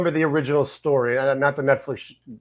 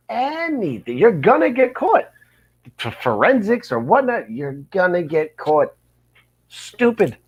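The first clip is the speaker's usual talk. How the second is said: mock scolding; 5 semitones higher than usual. Podcaster warning would-be criminals they'll get caught, mock scolding. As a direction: scold an imagined crook in a high pitch.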